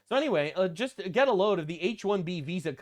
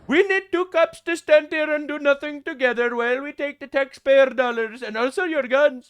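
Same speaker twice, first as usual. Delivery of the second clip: louder mock South Asian accent, smug; 6 semitones higher, 5 dB louder than usual. Mocking the two cops on duty, loud mock accent. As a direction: keep the cop parody going, smug. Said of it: "my Canadian accent".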